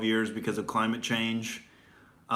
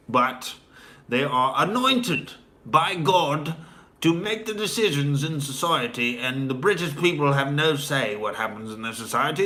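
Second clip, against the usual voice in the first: lightly raised, mocking mock-earnest sermon; sarcastic mock pomp; 2 semitones higher than usual. Mocking the EU's defenders, sarcastic mock pomp. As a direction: play a smug EU official sneering at Brits.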